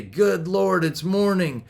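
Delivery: mildly acted reluctant riser; groper's morning grumble. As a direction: greet the morning without any enthusiasm. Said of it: "Gropers wake up and they say".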